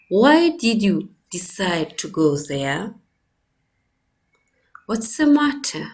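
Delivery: "Why did you decide to go there?" and "What's the matter?" each ending in a low fall; falling phrase endings. Shown as a demonstration. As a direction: drop low and firm on "there" and "matter", businesslike. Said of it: "with the low falling tone on the last stressed syllable".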